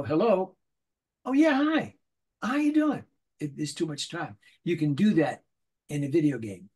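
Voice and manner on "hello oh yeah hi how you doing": high, drawn-out hello with a pause; too slow hello. Shown as a demonstration. Showing the wrong, slow way a cartoon line gets read. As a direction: leave too much air in it. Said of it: "You can't go".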